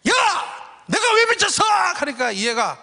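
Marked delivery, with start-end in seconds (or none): 0.1-1.6 high, loud indignant shout; angry yelled retort. Retold or imitated. Coach shouting back at umpire, high and angry. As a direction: demand why he's crazy. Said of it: "욕은 못하고요".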